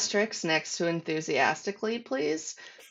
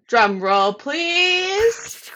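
announcer voice; 9 semitones higher, 6 dB louder, much slower than usual. Acted. Dramatic announcement buildup.

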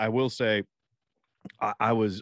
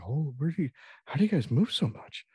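lightly voiced cranky old guy, pitched up; mock grumpy old man; 6 semitones higher than usual. At the game, grumbling about restless kids, a lightly hammed-up old-man whine.

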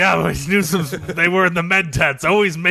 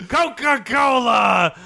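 slow, drawn-out mock vendor call; vendor yell; 5 semitones higher, slower than usual. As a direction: stretch it out like a stadium hawker. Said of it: "Another one yelling".

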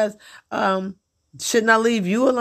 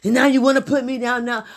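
high, quick indignant mimic; mock accusing husband; 6 semitones higher, faster than usual. Imitating her husband on the phone, high and quick. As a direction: whine the complaint.

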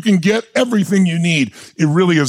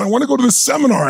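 eager rush; 6 semitones higher, faster than usual. Retold or imitated. Eager pitch to banker.

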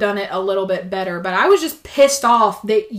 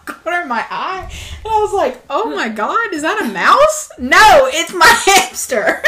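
laughing while talking; 7 semitones higher, 5 dB louder than usual. Real, not acted. Laughing retelling hamster sighting.

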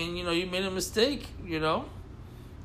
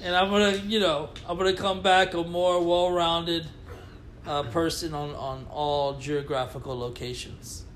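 slow, solemn press-statement apology; mock public apology; slower than usual. Co-host apologizing to Scotland, slow mock-solemn statement. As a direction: read it like a formal apology. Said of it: "That sounded sincere".

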